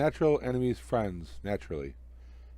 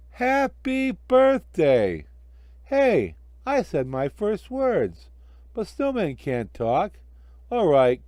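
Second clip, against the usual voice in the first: loud, high, delighted snowman voice; a newborn snowman thrilled to be alive; Frosty bursting with joy, higher and louder; jolly snowman; 6 semitones higher, 4 dB louder, slower than usual. Acted.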